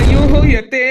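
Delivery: loud theatrical wail. Acted. Daughter-in-law hearing doctor's bad news, wailing. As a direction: cry out in hammed-up grief. Wailing over mother-in-law's critical condition.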